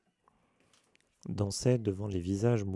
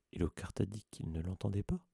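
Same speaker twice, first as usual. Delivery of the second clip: softer, hushed question; 6 dB quieter than usual. Acted. Whispering so as not to wake Neville.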